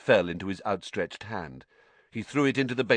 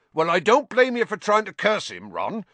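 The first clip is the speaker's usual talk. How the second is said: much higher and louder, over the noise; 13 semitones higher, 7 dB louder than usual. A narrator's reading. Hagrid speaking up to Ron over the slugs in the basin, loud. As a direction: boom over the thudding slugs. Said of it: "said Hagrid loudly".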